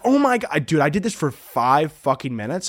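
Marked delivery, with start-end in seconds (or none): 0.1-0.7 high-pitched imitation of a shocked sister; retold freak-out. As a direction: imitate her panicked disbelief, pitched up. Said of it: "She's, like, freaking out".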